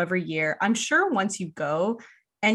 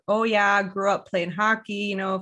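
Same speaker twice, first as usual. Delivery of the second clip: a light put-on Canadian accent, breezy hockey guy; mock Canadian accent. Imitating boyfriend faking being Canadian, light Canadian accent. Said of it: "trying to talk in a Canadian accent".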